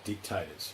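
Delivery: "dictators" with the weight on "DIC", like "dick-tators"; stress on first syllable. Shown as a demonstration. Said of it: "emphasis on that first syllable".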